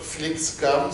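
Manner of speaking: bad Swedish accent. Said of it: "sorry for my bad Swedish accent".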